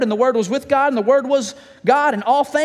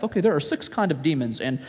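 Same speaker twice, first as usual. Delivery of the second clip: mock lecture; 6 semitones lower than usual. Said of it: "exorcism one oh one class".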